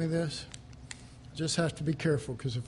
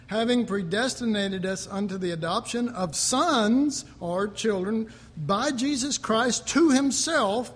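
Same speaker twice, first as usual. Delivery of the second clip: reading scripture aloud with a little more lift; 3 semitones higher than usual. Acted. Pastor reading Ephesians to the congregation, a touch raised and measured. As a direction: read it out like a pastor at the pulpit.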